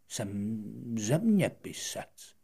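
put-on slow, drawn-out old scholar introducing himself; lightly voiced old man, slow and deliberate; old geographer answering the little prince slowly.

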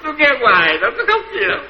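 mock smug monk with a laugh, rising high at the end; a laughing, mocking take on tôi nghe hoài. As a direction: mimic him laughing at the idea of crying. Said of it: "Ông nào nói".

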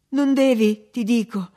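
loud, high forceful protest; insist, pitch starting high and falling; desperate insistence. A narrator's reading. She holds him back desperately.

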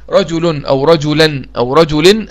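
رجل أو رجلا أو رجل said slowly as rajulun, rajulan, rajulin with a clear final n sound; tanween demo. Shown as a demonstration. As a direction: sound out رجل with each tanween ending, the nunation clearly heard. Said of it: "نونتها تبقى إيه".

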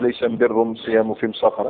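ليس البر said as laysa am-birru, m replacing l; every article am-: am-birr, am-siyam, am-safar; Himyar article. Shown as a demonstration. Teacher quoting a weak hadith in Himyar speech, am- for al-. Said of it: "لماذا ينطق بلغة حمير".

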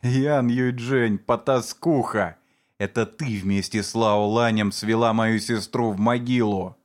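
slow, spat-out insult; slow venomous accusation. Acted. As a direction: drag out the insult slowly. Sujou accuses the mother. (медленное злобное обвинение)

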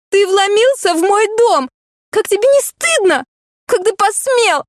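high, outraged scolding; breathless indignation. A narrator's reading. Heroine berates the man in her bed, high indignant outrage. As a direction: choke on your outrage, pitched high. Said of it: "задыхалась от возмущения я".

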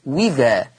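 وذا begun on a clear "wi"; isolated demo of w in وذا; hamza replaced by waw. Shown as a demonstration. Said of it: "والإبدال واو مكسورة".

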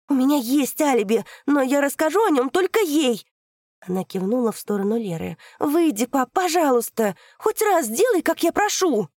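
high, loud desperate begging; loud pleading. Acted. Daughter pleads loudly with father.

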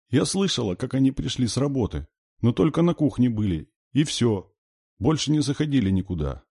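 put-on high child's voice; high, childish telling; little girl explaining. A narrator's reading. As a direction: report it like a small sister. Small girl explains about parents.

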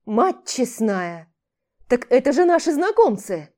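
amazed, rising to a loud cry; astonished exclamation from the wall; surprised shout. Acted. Commander sees friends at gate.

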